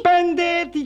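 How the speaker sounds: high, loud cry; anguished exclamation. Acted. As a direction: proclaim your suffering dramatically. Declares his years in prison.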